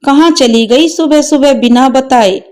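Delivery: put-on a child who doesn't understand yet; innocent child. Grandson asks where mother went, light puzzled boy voice.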